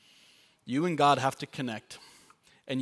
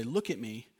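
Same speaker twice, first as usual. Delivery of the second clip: gentle father. Retold or imitated. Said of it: "I'll take his little face and say".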